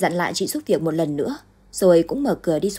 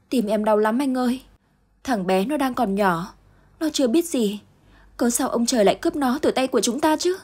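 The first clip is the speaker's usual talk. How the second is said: high, aching lament; wife lamenting to her husband over their lost son; heartbroken plea; 5 semitones higher than usual. Acted. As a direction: pour out the grief to him. Grieving mother to husband.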